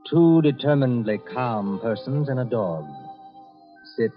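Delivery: ordinary delivery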